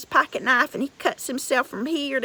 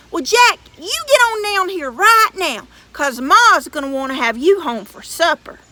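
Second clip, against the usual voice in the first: giant coaxing; 2 semitones higher, 7 dB louder than usual. Acted. Giant coaxes Jack down.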